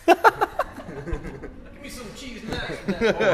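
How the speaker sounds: high, slow, laughing Southern drawl; Southern American accent. Pretend. Drummer jumps in with another Southern American accent, laughing. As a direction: ham it up as a Southern good old boy. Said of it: "your best American accent".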